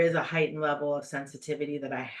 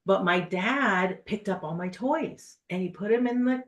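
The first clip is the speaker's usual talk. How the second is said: upset dog; 3 semitones higher, 4 dB louder than usual. Retold or imitated. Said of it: "And I'm really upset about it".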